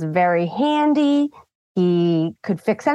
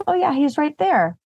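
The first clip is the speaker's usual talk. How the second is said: imitating toddler; 8 semitones higher than usual. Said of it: "She goes".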